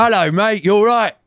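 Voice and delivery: mock British accent. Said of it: "close our eyes".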